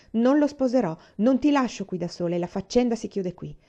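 cold determination. Acted. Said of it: "con fredda determinazione".

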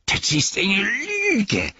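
high hissed denial; hissing. A narrator's reading. Gollum angrily denies Aragorn's words, hissing high. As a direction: spit it out like a hiss. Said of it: "zischte Gollum".

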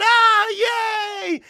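high, loud cheering yell; crowd cheer. Retold or imitated. Imitating the crowd cheering for a friend, high and loud. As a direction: roar like a wrestling crowd. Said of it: "the crowd's going".

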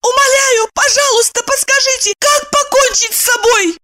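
high frantic pleading cry; desperate high-pitched plea; frantic shout. A narrator's reading. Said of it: "метнулась к нему и закричала".

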